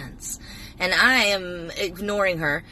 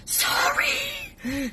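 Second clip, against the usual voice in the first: mock apology; 13 semitones higher than usual. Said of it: "she ain't saying".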